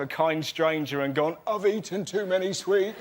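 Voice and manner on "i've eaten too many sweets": higher, slow pitiful confession; mock pathetic. Comic confesses to a kind stranger, mock pathetic. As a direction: confess it slowly in a raised, pathetic voice. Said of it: "truly pathetic".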